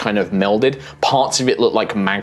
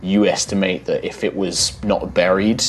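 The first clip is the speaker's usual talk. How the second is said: story narration; 4 dB quieter than usual. A narrator's reading. GM scene setting.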